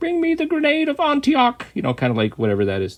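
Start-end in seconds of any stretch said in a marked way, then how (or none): 0.0-1.7 comic voice pitched very, very high. Describing a dubbed voice actor's sound: high-pitched Michael Palin voice. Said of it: "the high-pitched voice".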